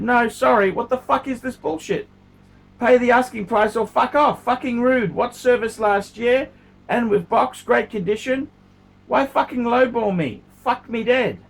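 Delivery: angry seller telling off a rude buyer; angry reply. Retold or imitated. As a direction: fire back at the lowballer. Quoting his own angry reply.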